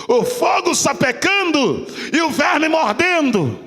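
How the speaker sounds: shouted and drawn out, rising in force; fiery pulpit cry; preacher's shout. Acted. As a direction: proclaim it full force to the church. Repeats line, then preaches it.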